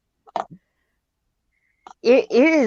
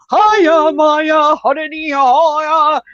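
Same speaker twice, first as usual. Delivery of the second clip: mock calling back; 6 semitones higher, 4 dB louder, much slower than usual. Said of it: "calling back to him".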